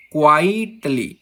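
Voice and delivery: क्वाइटली with a stretched क्वाइट; stress on first syllable. Shown as a demonstration. Teacher repeating a dactyl example, stretched stress on start of क्वाइटली. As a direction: hold क्वाइट, then a short ली. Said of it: "पहला दोस्तों stressed होता है".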